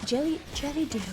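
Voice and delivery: tentative go at Cockney "jelly deals"; imitating Cockney pronunciation. Guest repeating the dish name on request, imitated Cockney. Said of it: "Say it".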